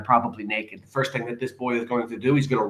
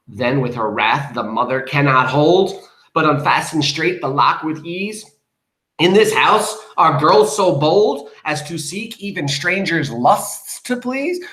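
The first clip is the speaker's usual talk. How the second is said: poem recitation; 3 semitones higher, 4 dB louder, slower than usual. A narrator's reading. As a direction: read the verse out, lifting toward the end.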